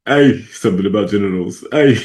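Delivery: loud mock singer cry on the ays; lightly voiced parody of a reggaeton singer. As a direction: parody a reggaeton hook, ay ay. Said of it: "She said".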